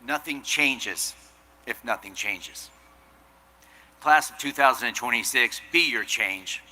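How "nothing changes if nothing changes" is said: slow, each word weighed; slow emphatic mantra. Shown as a demonstration. Speaker closing the speech to graduates, slow and weighty. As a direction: let the line land slowly. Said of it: "closing mantra, slow".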